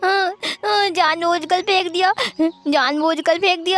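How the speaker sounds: put-on sobbing child. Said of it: "आंसुओं को पोंछते हुए कहा".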